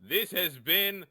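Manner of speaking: announcer voice. Acted. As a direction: sign off like a cartoon narrator. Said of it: "sounds like the announcer in the beginning of the Powerpuff Girls".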